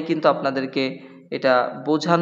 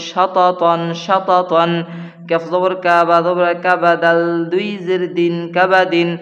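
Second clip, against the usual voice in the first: louder, rhythmic letter-by-letter chant; Qaida spelling recitation; 3 dB louder than usual. Acted. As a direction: spell it out to students in a chanting beat. Spelling drill continues.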